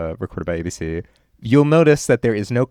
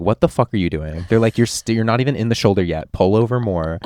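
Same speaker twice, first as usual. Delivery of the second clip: louder, half-joking rude yell; mock East Coast rudeness; 7 dB louder than usual. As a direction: bark at the stranded driver like a gruff New Yorker. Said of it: "they're gonna be like".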